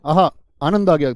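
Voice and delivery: loud joyful aha. Shown as a demonstration. Teacher showing joy to students, joyful exclamation. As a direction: burst out with delight. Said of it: "खुशी का भाव पैदा करते".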